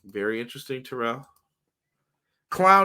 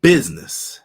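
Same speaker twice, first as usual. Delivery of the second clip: announcer call; 5 semitones higher, 10 dB louder, much slower than usual. Acted. Show opening catchphrase, called out.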